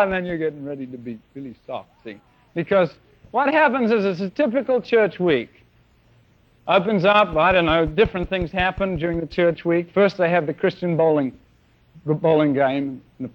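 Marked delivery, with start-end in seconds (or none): none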